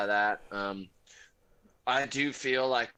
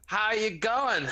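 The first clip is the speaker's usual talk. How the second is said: mock shout, raised pitch, slow; shouted across a kitchen; 9 semitones higher, slower than usual. Friend shouting the greeting at the cook guy, mock shout. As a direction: call it out to the cook, drawn out. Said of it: "shout at the cook guy".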